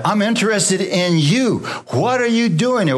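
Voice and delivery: high-pitched, insistent divine question; pressing, pointed appeal to Elijah; God addressing Elijah. Acted. Voices God confronting Elijah.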